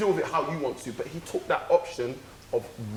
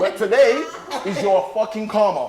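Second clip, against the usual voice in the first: retold confrontation; 5 semitones higher, 7 dB louder than usual. Confronting the driver who fled.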